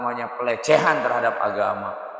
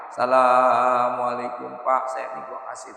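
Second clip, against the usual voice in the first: acted greeting. Acts out someone at the door.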